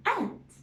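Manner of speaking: ant with a drawn short A, pitch rising high; short a sound. Shown as a demonstration. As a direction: stretch the A in ant. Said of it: "Can you hear the short A sound?".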